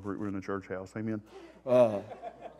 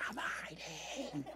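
soft, slow, half-laughing confession; sheepish whisper; 6 semitones higher, 10 dB quieter, much slower than usual. Retold or imitated. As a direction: admit it meekly while chuckling. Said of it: "And I was like".

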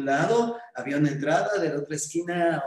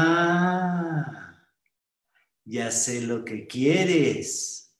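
knowing smile; much slower than usual. Acted. Pretty shop girl teases the nervous boy, slow and knowing. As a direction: let a smile drawl through it. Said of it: "tenía además una sonrisa muy linda".

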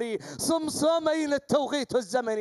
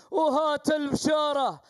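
urging shout. Real, not acted. Urging the falcon Shama on.

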